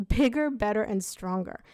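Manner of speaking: amused self-correction; laughing correction. Real, not acted. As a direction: laugh off the slip and land on bigger. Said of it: "uh, bitter".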